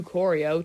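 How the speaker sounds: Corio in two syllables, cor-yo; short nickname. Shown as a demonstration. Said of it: "two syllables".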